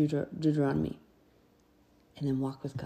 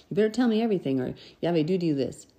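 mock threat; faster than usual. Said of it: "this little threat".

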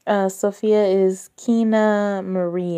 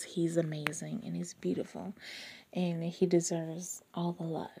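whispered, much softer gush; 3 semitones lower, 14 dB quieter than usual. Real, not acted. Fan gushing about her crush, whispered.

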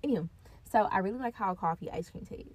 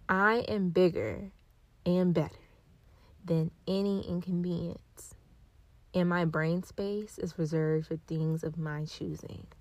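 affirmation reading; 6 dB louder than usual. Acted. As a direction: speak each affirmation with calm conviction. Reads affirmations.

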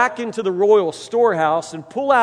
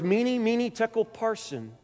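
"Meeny, meeny, tekel, parson" read higher, fading softer to the end; eerie intoning; 4 semitones higher, 4 dB quieter than usual. Acted. Preacher reading the hand's words on the wall, eerily higher and fading. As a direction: spell out the ghostly words higher, trailing off quietly.

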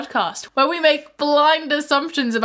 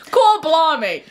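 higher, Australian-sounding mock Cockney; botched accent turning Australian; 4 semitones higher, 4 dB louder, slower than usual. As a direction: try Cockney and slip into Australian. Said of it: "that's, that's Australian".

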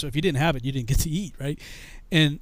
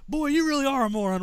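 high-pitched berating; scornful sergeant; 9 semitones higher than usual. Retold or imitated. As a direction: chew out the recruit.

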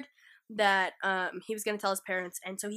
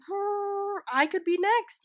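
imitated worried kid; 10 semitones higher, slower than usual. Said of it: "who literally is like".

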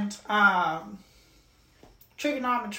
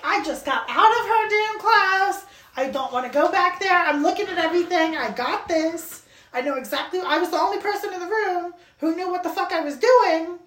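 raised, fed-up protest, a touch louder; indignant rant; 5 semitones higher, 4 dB louder than usual. Retold or imitated. Student fumes at being sent back to class, indignant. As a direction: rant that you already know it all. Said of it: "And I'm like".

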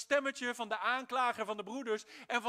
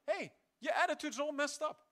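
Holy Spirit's rebuke. Retold or imitated. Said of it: "Door de Heilige Geest in mijn hart".

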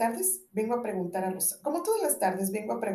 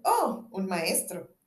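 modest; much slower than usual. Acted. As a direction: play it down humbly. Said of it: "Cirano modesto".

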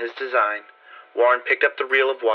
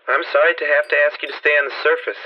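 mellow tenor voice; 4 semitones higher, 3 dB louder than usual. Acted. Warren speaks calmly to narrator.

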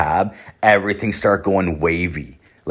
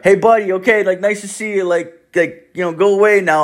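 high, forced-polite kiddie talk; nice shooing; 11 semitones higher, 3 dB louder than usual. Retold or imitated. Man waving off a following kid, high forced-friendly voice. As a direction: act out coaxing a child away.

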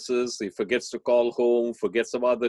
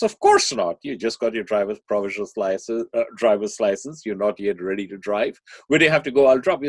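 firm mother; 5 dB louder than usual. Acted. Mother refusing teenage son's car request, firm and loud.

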